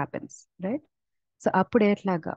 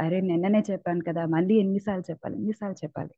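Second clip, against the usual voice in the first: exasperated parent; much faster than usual. Retold or imitated. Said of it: "మనం కూడా చెప్తుండాలి".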